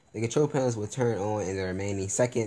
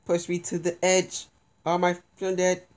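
dramatic; 8 semitones higher than usual. Real, not acted. Dramatic quote while falling.

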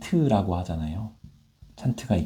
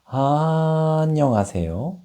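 higher pitched greeting; raised pitch; 6 semitones higher, slower than usual. Shown as a demonstration. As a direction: lift the pitch up. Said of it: "피치를 올려서".

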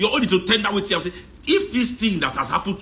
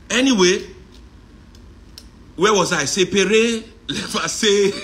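laughing; 4 semitones higher, 3 dB louder than usual. Real, not acted. Laughing return to topic.

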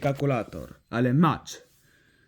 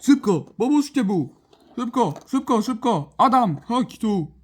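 high, urgent call for help; urgent plea; 4 semitones higher than usual. Pretend. Calling friends to help the injured one, urgent plea. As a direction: call the others over in play panic.

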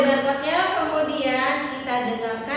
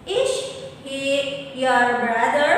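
slow model question. Shown as a demonstration. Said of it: "dengarkan dialognya ya".

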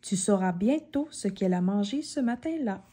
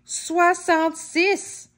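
amazed exclaim; 6 semitones higher, much slower than usual. A narrator's reading. Exclaiming the big number.

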